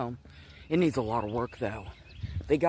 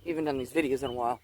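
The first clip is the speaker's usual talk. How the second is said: winded, catching breath; 2 semitones lower, much faster than usual. Real, not acted. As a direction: talk a little out of breath. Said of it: "I know I'm kinda winded".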